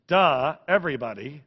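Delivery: sarcastic duh, voicing the disciples; mock duh. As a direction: roll your eyes at the obvious. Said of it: "Well, that's my translation".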